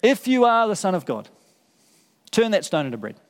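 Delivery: lightly voiced tempter, mocking; tempter's voice. The evil one tempting Jesus in the desert, lightly taunting. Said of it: "Started saying to him".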